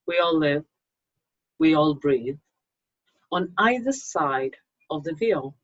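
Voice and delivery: measured, hushed reading of a ghost tale; story narration. A narrator's reading. Author reading her ghost story to viewers, calm storytelling voice.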